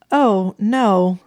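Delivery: high startled squeak. A narrator's reading. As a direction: squeak it out, voice jumping up. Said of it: "Elvira squeaked".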